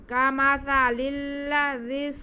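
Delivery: slow recited demo of الذي; gentle ذ. Shown as a demonstration. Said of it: "زال میں سیٹی کی آواز نہیں آئے گی".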